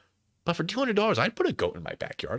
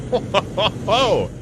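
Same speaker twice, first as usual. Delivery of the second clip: a big booming ho-ho-ho laugh, higher and louder; hearty ho ho laugh; 9 semitones higher, 8 dB louder, much slower than usual. Real, not acted. Streamer laughs at the cow price, booming ho-ho-ho. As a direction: laugh it out like a delighted Santa.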